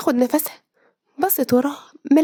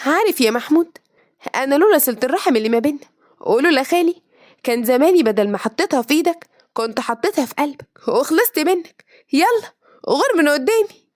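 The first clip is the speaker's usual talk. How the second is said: scolding warning. Acted. Girl scolding her cousin, finger raised, rising angry. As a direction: tell him off and send him packing. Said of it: "رفعت صباعها في وشه".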